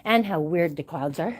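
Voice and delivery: panting between words, out of breath. Real, not acted. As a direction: talk while still catching breath. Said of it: "I am breathing so heavy".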